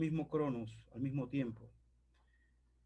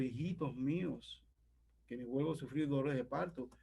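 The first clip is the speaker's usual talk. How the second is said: tender address; 5 dB quieter than usual. Retold or imitated. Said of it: "Esa dulzura".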